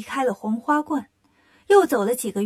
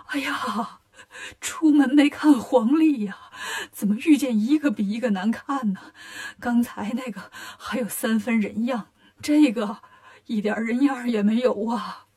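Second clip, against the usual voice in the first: put-on mild fright in an old man's voice; scared old grandpa. Old grandpa sees Bajie and wails in mild fright.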